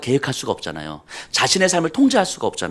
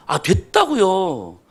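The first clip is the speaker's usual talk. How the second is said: mock annoyed deaconess; 4 semitones higher, slower than usual. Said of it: "이렇게 화를 내시는 거예요".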